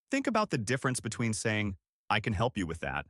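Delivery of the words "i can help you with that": bright helpful tone. Shown as a demonstration. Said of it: "with a bright, helpful tone".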